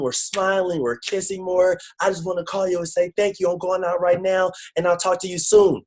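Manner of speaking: high, sustained mock-emotional gush; imitated crying caller. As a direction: mimic an overwhelmed client pouring out thanks. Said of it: "She's crying".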